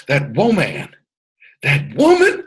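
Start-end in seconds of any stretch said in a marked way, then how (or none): 1.6-2.4 much higher emphatic repeat. Shown as a demonstration. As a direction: lift "woman" high, like calling to the ladies on the call. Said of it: "And for the ladies on the call".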